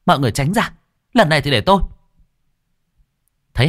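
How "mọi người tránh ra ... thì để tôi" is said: raised, commanding voice; loud. Acted. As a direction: clear the room with a loud order. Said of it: "nói lớn".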